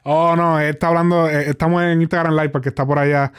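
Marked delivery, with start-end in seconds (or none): none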